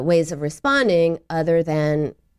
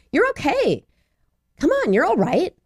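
put-on high-pitched brush-off of a crying child; impatient parent; 9 semitones higher than usual. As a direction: mildly hurry the child out of tears. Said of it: "I don't think many parents would be that harsh".

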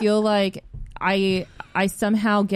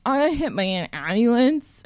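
higher mock-tearful blurt; retold tearful; 4 semitones higher than usual. Telling the ex why she is late, mock tearful. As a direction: imitate blurting out bad news through tears. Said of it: "not making any sense".

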